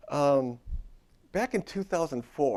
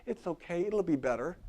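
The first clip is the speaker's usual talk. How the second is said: lightly acted tender reassurance; gentle compassion; 4 semitones higher than usual. Client comforting an upset best friend in an empty chair, gentle reassurance. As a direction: reassure a hurting friend with care. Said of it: "all this compassion and care and gentleness".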